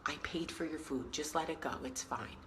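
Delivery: soft, voiced mock whisper; quiet words into an old lady's ear; retold whisper. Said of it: "and I whisper in her ear".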